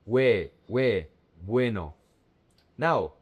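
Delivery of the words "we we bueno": "we" as one glide, then "bueno" as BWE-no; joined diphthong. Shown as a demonstration. Teacher drills vowels pronounced together, "we" leading into "bueno". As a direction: build "bueno" from a single-syllable "we". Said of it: "The two vowels are pronounced together".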